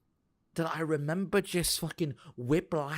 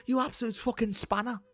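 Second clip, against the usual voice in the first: exasperated rant; 10 semitones higher than usual. Real, not acted. Streamer fuming at an absurd situation, high indignant rant. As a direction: rail at them in outraged disbelief.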